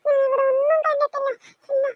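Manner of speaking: tearful, frightened denial; crying denial. Acted. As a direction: deny it through tears. Frightened child denies seeing anything.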